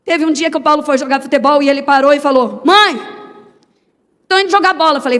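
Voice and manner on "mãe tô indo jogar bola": put-on a small boy shouting to mom on his way to football; child calling out. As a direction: call out cheerfully like a little boy leaving to play.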